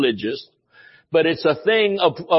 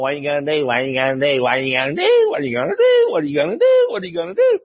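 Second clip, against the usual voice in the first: taunting devil; 3 semitones lower, much faster than usual. Pretend. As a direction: badger him like a sneering devil. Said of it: "the devil's going".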